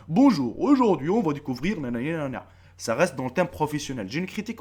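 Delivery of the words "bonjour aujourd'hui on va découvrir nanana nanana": sing-song presenter intro, starting loud; mock professional presenter. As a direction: parody a slick faceless top-list host. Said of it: "c'est des cas professionnels, il arrive".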